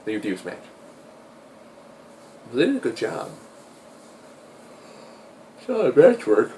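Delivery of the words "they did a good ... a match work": hoarse from being sick; rough, raspy sick voice; smoker's rasp. Real, not acted. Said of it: "that's why I sound like I've been smoking two packs a day".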